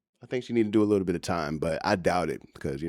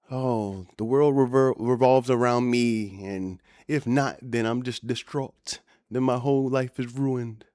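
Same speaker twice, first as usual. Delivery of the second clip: slow, lightly mocking whine of a self-centred woman; mocking white woman; 3 semitones higher than usual. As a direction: drag it out, poking fun at her drama. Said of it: "a typical American white woman who's in her own little bubble".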